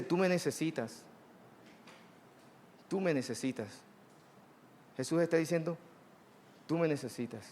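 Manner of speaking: Jesus telling each believer gently, in a soft voice; soft intimate voice. Acted. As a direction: say it softly, close to the listener's ear.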